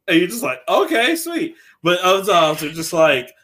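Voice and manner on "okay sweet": high-pitched, chirped acceptance; pleased player reaction. Retold or imitated. Player told a demon joins the team, pleased high reply. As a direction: jump up high, happily accepting the offer.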